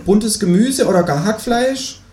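high, slow kangaroo request; kangaroo character. Acted. Kangaroo asks for a filling, high and slow. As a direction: spell out the wish slowly, high as the kangaroo. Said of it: "sagt das Känguru".

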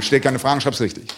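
a hint of a strict teacher; lightly voiced stern teacher. Teacher retort. (etwas tiefer, strenger Lehrer)

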